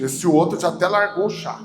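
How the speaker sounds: ordinary delivery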